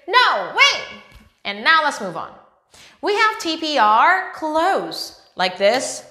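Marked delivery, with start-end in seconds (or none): 0.1-0.8 a higher, bright mock No way; mock disbelief. Shown as a demonstration. Teacher showing kids how to react, playful mock disbelief. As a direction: show the kids how to sound amazed. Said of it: "you say".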